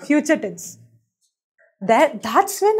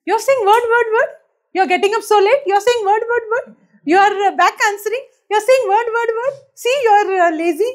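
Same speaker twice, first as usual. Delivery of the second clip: higher-pitched scolding, point after point; mock nagging; 5 semitones higher than usual. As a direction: imitate a relative listing faults. Mimics family's nagging criticism.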